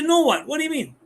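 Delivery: high-pitched mock indignant "what?"; defensive retort. Staff member getting defensive with a customer, high mock indignation. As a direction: bristle back defensively, half-playful. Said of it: "You say".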